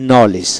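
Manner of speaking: "নলেজ" with no d before the j; silent D. Shown as a demonstration. Teacher showing learners a silent letter, "নলেজ" without D. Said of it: "ডি উচ্চারিত হবে না".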